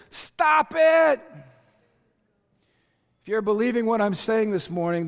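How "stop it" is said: loud high shout; yelling. Real, not acted. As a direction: cut them off with a shout. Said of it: "here's why I'm yelling".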